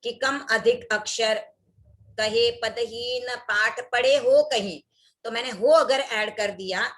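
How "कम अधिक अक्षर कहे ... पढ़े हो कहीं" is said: slow recitation with an extra "हो" slipped into "पढ़े हो कहीं"; deliberate slow misreading with an added "हो"; added syllable demo. Shown as a demonstration. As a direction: read the verse slowly, inserting "हो". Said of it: "ऐसे बोल दिया".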